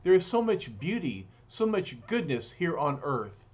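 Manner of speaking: put-on gentle, comforting young woman; tender reassurance. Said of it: "She says".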